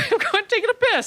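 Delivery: high, loud laughing yell; mock outraged yell. Woman yelling at the comic who barged into her bathroom, high and loud. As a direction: throw him out, half laughing. Dominatrix yells.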